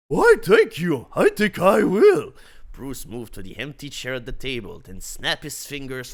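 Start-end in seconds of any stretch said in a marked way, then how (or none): 0.1-2.3 suave stranger voice. Acted. Bruce accepts loudly.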